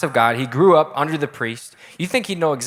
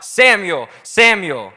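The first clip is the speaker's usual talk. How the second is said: raised, drawn-out call of a name; 3 semitones higher, 5 dB louder, much slower than usual. A narrator's reading. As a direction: call out as if summoning someone. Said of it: "God called out".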